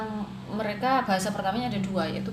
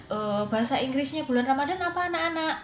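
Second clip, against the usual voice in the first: lightly acted higher-pitched classroom question; lilting teacher's question, lifted on the closing address; teacher quizzing pupils; 5 semitones higher than usual. Teacher asking children for the English for Ramadan month, quizzing lilt. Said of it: "ketika saya tanya".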